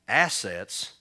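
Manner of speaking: loud startled echo of the word; blurted disbelief. Acted. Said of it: "Sarah blurted out in disbelief".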